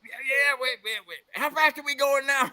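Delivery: high, rushed alarm; panicked biker. Retold or imitated. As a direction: squeal it like a scared rider. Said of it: "he looks over at Rocky and goes".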